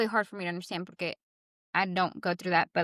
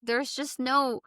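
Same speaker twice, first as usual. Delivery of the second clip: exasperated; 5 semitones higher, 5 dB louder than usual. Retold or imitated. Recalling her frustration at the situation.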